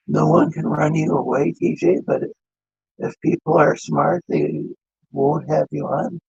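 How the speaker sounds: glitchy metallic phone-line voice; choppy robotic breakup over the call. Real, not acted. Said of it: "Why do you sound like a robot?".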